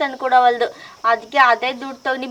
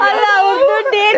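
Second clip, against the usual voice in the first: louder, tearful wail; crying; 6 semitones higher, 5 dB louder than usual. Acted. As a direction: sob out the words. Women weep together. (ಅಳುತ್ತಾ ಮಾತು)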